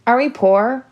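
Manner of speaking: high, loud, frightened question; panicky. A narrator's reading. Olive asking her family if they are poor, high and panicky. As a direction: let the panic climb into the question. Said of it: "her voice rising in panic".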